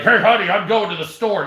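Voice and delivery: lightly voiced cheerful announcement; innocent voice. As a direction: sound sweet and oblivious. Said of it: "I'll be like".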